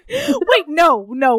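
cracking up in protest; shocked laughter. Real, not acted.

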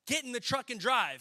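acted-out captain's order; captain's order under fire. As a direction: order a soldier as if in battle.

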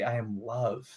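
I am love said soft and felt; feeling the love. Shown as a demonstration. Demo of speaking I am love with feeling. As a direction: let love fill the words I am love. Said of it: "use your inflection ... and feel love".

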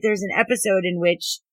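muffled by a hand; words behind the hand; hand over mouth. Real, not acted. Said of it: "I had my hand over my mouth".

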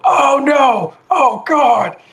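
high, loud terrified shout; panicked yell as he falls; panicked scream. Acted. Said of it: "you hear him go".

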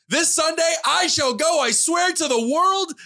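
mock solemn vow, high and slow; grand declaration. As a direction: pronounce it like a grand oath.

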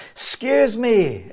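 high, drawn-out call to get attention; retold shout across a hall. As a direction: call it out high and slow, as if to a huge crowd. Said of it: "I'm having a shout".

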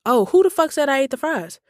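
high-pitched mock outrage; acted-out challenge, pitched well up; indignant retort. Accused customer snapping back at friend, indignant.

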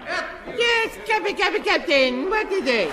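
put-on high, nervous young ensign; flustered high voice. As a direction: stammer it up high.

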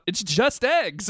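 high, drawn-out mock shout; retold shout. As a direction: imitate someone bursting out, loud and slow. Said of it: "he just shouted out".

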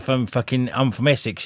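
casual Essex-Cockney voice; Cockney accent. Retold or imitated. Actor talking in real life, Cockney accent. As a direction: imitate the actor's everyday Cockney. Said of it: "he's like a Cockney".

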